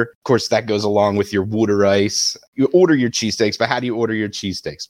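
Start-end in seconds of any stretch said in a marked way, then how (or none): 1.4-2.4 "water ice" said as "wooder ice"; Delco pronunciation. Shown as a demonstration. Debater showing Philly words, "water ice" as "wooder ice". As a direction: give "water" in "water ice" an oo as in wood. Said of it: "your Delco accent".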